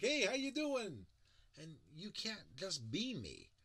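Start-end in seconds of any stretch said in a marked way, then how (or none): 0.0-1.1 loud, high and slow hey; outgoing greeting, much louder and higher; big cheery greeting. Shown as a demonstration. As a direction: call out a booming friendly hello on the street. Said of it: "my speaking voice is my speaking voice".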